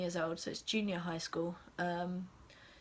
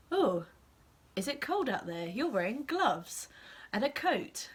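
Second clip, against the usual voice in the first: louder, bright teacher questioning the class; exaggerated teacher voice modelling English; teacher prompt; 5 semitones higher, 4 dB louder than usual. Shown as a demonstration. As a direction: ask it like a classroom teacher coaxing kids. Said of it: "I will say".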